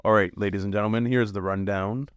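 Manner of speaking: lightly put-on news presenter intro; changed announcer voice. Host introducing the podcast's rundown segment, mild announcer voice. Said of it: "I changed my voice a little bit".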